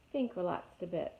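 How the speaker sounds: ordinary delivery, nothing marked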